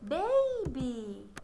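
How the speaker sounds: put-on Baby said as one quick word; said fast. Shown as a demonstration. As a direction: blend the two syllables quickly into Baby. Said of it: "Say it fast".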